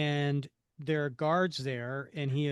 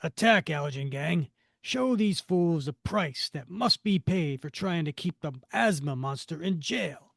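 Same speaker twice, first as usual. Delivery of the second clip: villain voice; 3 dB louder than usual. Acted. Villain gives orders.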